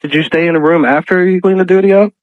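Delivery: ordinary delivery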